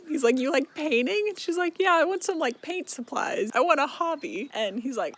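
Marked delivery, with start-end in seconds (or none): 0.4-4.5 chirpy. Retold or imitated. Back-and-forth about painting.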